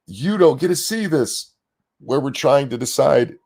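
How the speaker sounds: hiccuping through words; hiccups. Real, not acted. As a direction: talk between hiccups. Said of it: "Sorry, I had the hiccups".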